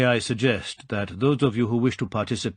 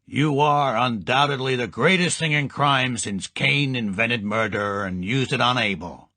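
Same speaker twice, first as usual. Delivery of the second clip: sonorous; 2 semitones higher than usual. Acted. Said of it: "Jed Midnight pronounced sonorously".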